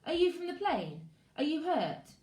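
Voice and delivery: put-on high, loud young girl's voice; a shaken girl asking and answering; worried girl. Girl characters speaking.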